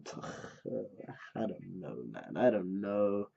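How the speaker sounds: very soft, low, drawn-out sigh; hushed bewilderment; at a loss. Real, not acted. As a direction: sigh it out slowly, baffled. At a loss after the shock.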